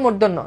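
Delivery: মূর্ধন্য said loosely as "mordonno"; another common variant. Shown as a demonstration. Teacher quotes another way some people say it, loose pronunciation. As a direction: say মূর্ধন্য casually, as "mor-don-no". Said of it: "কেউ বলে".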